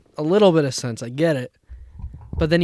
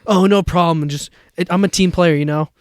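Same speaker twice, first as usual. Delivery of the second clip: mock team player; 3 semitones higher, 6 dB louder than usual. Waiter falsely modest when thanked.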